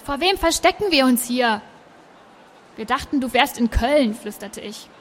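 lively read-aloud narration; story narration. A narrator's reading. Presenter reading a scene from the book, story narration. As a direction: read it to the listeners like a novel. Reads novel excerpt aloud.

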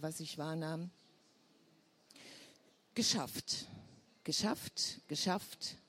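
measured literary reading with long pauses; story narration. Acted. Author reading her Berlin story to listeners, measured narration. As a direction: read it out phrase by phrase, letting pauses hang.

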